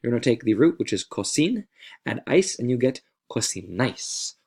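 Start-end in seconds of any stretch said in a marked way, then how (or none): 3.3-4.3 cocinais with the stress on its final "nais"; stress on last syllable. Shown as a demonstration. Teacher showing students where the accent mark falls, final-syllable stress on cocinais. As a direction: say cocinais leaning on NAIS at the end. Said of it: "The stress is on that syllable".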